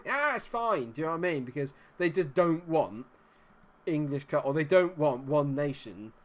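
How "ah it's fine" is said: mock dismissive. Mimicking UEFA's leniency.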